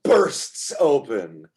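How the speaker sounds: slow, dramatic entrance narration; game master's scene setting. Acted. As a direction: draw out each phrase to announce a grand entrance.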